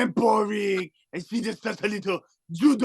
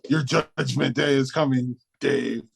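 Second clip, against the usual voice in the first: a low, looming alien threat; Spaceman George voice; 5 semitones lower than usual. Acted. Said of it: "It is I, Spaceman George".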